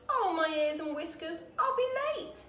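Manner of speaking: high, breathless panicky rabbit; flustered rabbit gasping. A narrator's reading. White rabbit gasping that he's late. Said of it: "he gasped".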